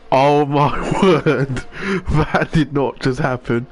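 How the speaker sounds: slow, laughing disbelief; shocked laughter. Real, not acted. Laughing at the crash.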